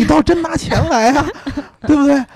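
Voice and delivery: high, laughing challenge. Real, not acted. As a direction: laugh while daring them.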